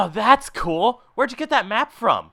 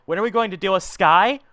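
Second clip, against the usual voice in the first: irked echo. Acted. Boss repeats underling's question about Sky, irked. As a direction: throw the question back indignantly.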